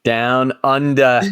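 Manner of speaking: slow mock Australian accent. Co-host joking about a place that went under, Australian accent. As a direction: draw it out like an Aussie. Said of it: "not to Australia".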